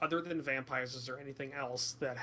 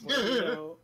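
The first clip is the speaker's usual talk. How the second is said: loud; 7 semitones higher, 8 dB louder than usual. Real, not acted. Frustrated repeat to party.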